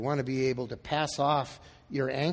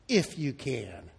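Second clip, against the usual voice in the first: slow, lower, deflated echo; disbelieving echo; 4 semitones lower, 4 dB quieter, much slower than usual. Acted. Desperate dad echoing the flack from Jesus, disbelieving. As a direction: repeat it slowly, letting it fall. Father repeats Jesus's words back.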